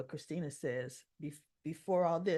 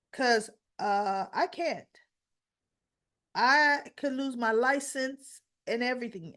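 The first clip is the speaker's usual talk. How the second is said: higher, louder objection; retold protest; 4 semitones higher, 4 dB louder than usual. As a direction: push back in mild alarm, voicing the character. Molly protests being asked to lie.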